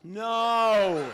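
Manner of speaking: belted-out high NO; loud refusal. Acted. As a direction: refuse at full volume, drawn out. Puppet refuses loudly.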